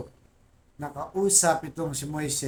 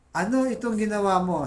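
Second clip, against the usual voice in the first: God's question; 5 semitones higher, 5 dB louder than usual. Retold or imitated. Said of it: "Sabi niya".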